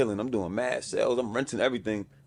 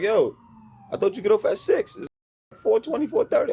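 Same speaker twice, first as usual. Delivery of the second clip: high-pitched puzzled reaction; retold surprise; 10 semitones higher, 3 dB louder than usual. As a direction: act out his surprise, pitch climbing. Retold surprise at early arrival.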